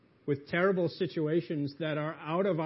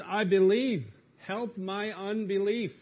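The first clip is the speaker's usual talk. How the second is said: loud cry, higher, slowing on unbelief; 6 semitones higher, 6 dB louder, slower than usual. Acted. Humble father crying out to Jesus, loud and high. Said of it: "he cries out and says".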